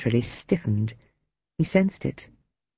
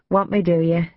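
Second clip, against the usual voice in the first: higher, provocative teasing; dangerous tease; 5 semitones higher, 4 dB louder than usual. A narrator's reading. Woman daring her lover to take her, teasing dangerously. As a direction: taunt playfully with a lifted pitch. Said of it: "she teased dangerously".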